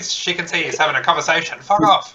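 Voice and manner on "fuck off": snapped, higher and louder; angry. Retold or imitated. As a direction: bark it at the neighbor. Mock telling off the neighbor.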